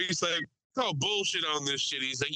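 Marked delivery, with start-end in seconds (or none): 0.8-2.0 higher-pitched imitation of a heckling passenger; mock heckling. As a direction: lightly act out a passenger calling nonsense. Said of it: "now he's just heckling the".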